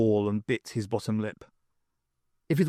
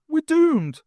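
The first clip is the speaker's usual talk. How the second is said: loud, much higher despairing wail; panicked cry; 6 dB louder than usual. A narrator's reading. Wagstaff seeing the Grell coming, panicked cry. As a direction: cry out in doom-laden panic.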